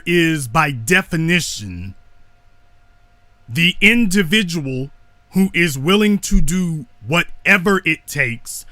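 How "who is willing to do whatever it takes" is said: whatever pressed a little harder; stress on whatever. Real, not acted. Speaker stressing whatever to his listeners. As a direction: lean on the word whatever. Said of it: "emphasis on the word whatever".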